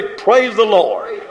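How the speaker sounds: drawn-out, slow "Praise the Lord" as a call for the crowd; preacher calling out to the congregation, slow. Shown as a demonstration. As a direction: stretch out "Praise the Lord" slowly to lead the response. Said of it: "Somebody say".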